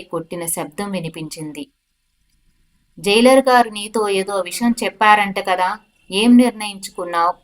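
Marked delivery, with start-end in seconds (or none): 3.0-7.3 constable calling loudly into the cell; raised voice through the bars, a touch louder. Acted. Constable to prisoner through the cell wall, a raised call. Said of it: "అని constable గట్టిగా అన్నాడు".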